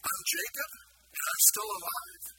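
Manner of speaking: incredulous question, voice leaping up; astonished Jacob. Retold or imitated. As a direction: play Jacob amazed he survived, pitch climbing. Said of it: "he wakes up the next morning saying".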